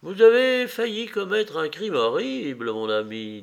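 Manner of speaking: severe, measured rebuke; stern reproach. A narrator's reading. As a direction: reprimand him firmly. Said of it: "en le regardant sévèrement".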